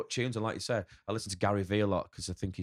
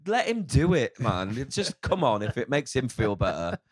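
encouraging inner voice; 3 semitones higher, 7 dB louder than usual. Retold or imitated. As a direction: urge the others to let him carry on. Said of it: "the other one's going".

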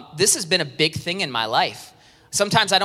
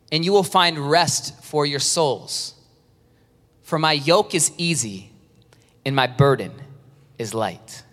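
scripture reading. Acted. Reads scripture slowly.

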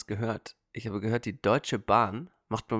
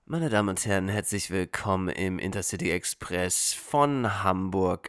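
slow, lower train station announcement; train announcer; 5 semitones lower than usual. Pretend. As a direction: announce the ICE like a conductor. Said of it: "die Deutsche Bahn sucht neue Ansager".

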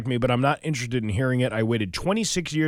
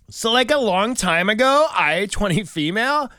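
put-on bubbly, higher and louder valley girl read; 8 semitones higher, 5 dB louder than usual. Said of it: "read this like a Valley Girl".

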